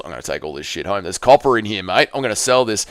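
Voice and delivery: lightly voiced scavenger, starting low and quiet; Wet Wall Dougie. Dougie pocketing roof materials, in a lightly put-on voice. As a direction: mutter like someone stripping a roof to sell. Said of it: "Impression of Wet Wall Dougie harvesting Leon's roof".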